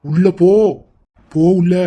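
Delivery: loud, firm command; stern order. Acted. Brother sending his pleading sister inside, stern order.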